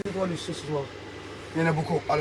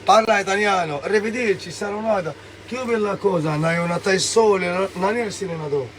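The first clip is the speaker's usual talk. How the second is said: playful, louder Italian impression; mock Italian; 3 semitones higher, 3 dB louder than usual. Claiming he woke up Italian yesterday, mock Italian. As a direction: toss out stock phrases as a make-believe Italian. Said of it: "j'étais italien".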